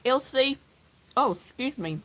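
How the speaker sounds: talking around ice in the mouth; words muffled by a piece of ice. Real, not acted. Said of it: "I've got ice in my mouth".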